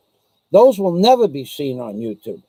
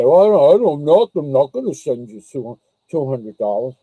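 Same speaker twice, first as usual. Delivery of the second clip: put-on Australian accent; 2 semitones lower than usual. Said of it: "It's my Australian accent".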